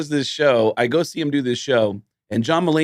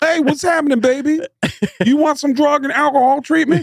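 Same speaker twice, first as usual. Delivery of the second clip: mock macho smooth talker, pitched high and loud; super masculine voice; 3 dB louder than usual. Comedian jokingly voices rehab guy on the phone, mock macho. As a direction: ham up a tough-guy come-on, louder. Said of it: "like, a super masculine voice".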